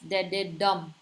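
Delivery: "Dededum" with the last syllable stressed; two light beats, then land on DUM in "Dededum"; anapest stress pattern. Shown as a demonstration. Teacher showing class an example of an anapest, stress on the final syllable of "Dededum". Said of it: "first two are unaccented and the third syllable is accented".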